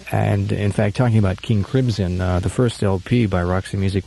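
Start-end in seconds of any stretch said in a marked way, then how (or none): none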